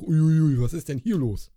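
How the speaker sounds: mock startled. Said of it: "denke ich mir auch".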